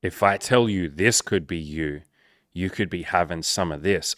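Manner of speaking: dramatic teasing reveal. Pretend. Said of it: "But ready? Watch this".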